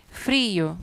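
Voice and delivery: "Frio" split as FRI-o; careful two-syllable "Frio"; vowels in hiatus. Shown as a demonstration. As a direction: stress the i of "Frio" apart from the o.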